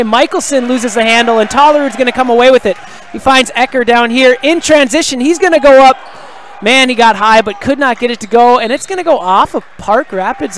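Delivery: quick, energetic basketball call; live play-by-play. Real, not acted. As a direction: build in volume as the player drives to the hoop.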